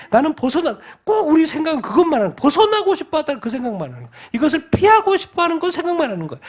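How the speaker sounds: high, strained-pitch insistence; impassioned preaching. Real, not acted. Preacher rebuking those who only want to escape, impassioned. Preacher voices the trapped believer, exhorts.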